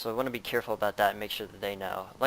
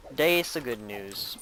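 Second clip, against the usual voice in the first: "That's good news" dragged very slowly; slow and drawn out; much slower than usual. Real, not acted.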